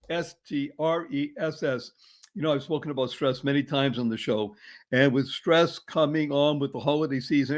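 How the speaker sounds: soft, measured sponsor spot voice; ad read. Acted. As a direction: read the sponsor message with calm cheer.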